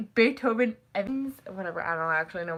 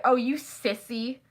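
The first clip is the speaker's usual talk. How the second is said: sissy as a light insult; mild put-down in an imitated voice; mild mock taunt; 2 semitones higher than usual. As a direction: lightly tease someone as a wimp. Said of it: "Not like that".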